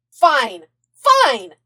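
loud, clipped agreement; loud snapping. A narrator's reading. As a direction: bark it back impatiently. Zuko answering back.

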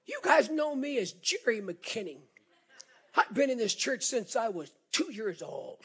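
lightly imitating a timid squeak, pitch jumping up on odd words; a hint of your squeaky younger self; squeaky little voice. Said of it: "in a squeaky little voice I had".

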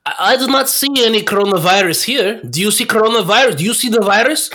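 hammed-up insistence, questions fired off quickly; acted defiant interviewee. President brushing off an interviewer about coronavirus, mock defiant. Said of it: "and he's getting interviewed".

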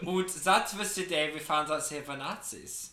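put-on comic German-accented narrator; mock German accent. Friend joking after the Hitler jibe, mock German accent.

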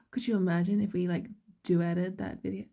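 slipping into an American accent; accidental American lilt; standard American accent. Real, not acted. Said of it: "why did I sound American there".

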